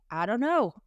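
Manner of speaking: tour guide in badly faked Australian; poor imitation of an Australian; terrible Australian accent. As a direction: attempt an Aussie accent and miss. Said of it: "not gonna do an accent anymore".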